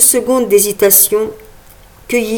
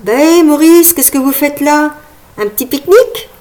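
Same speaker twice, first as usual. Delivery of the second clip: high, mocking teenage voice; cheeky boy voice; 7 semitones higher, 3 dB louder than usual. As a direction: tease the old man, cheekily. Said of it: "demanda le plus grand".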